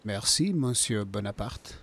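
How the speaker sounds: lightly put-on French accent. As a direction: toss it off in mock French. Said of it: "talked to her with a French accent".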